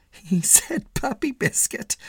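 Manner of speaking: high, slow woman's voice; amused passing woman. A narrator's reading. Passing woman to her companion, amused. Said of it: "A woman who was passing laughed".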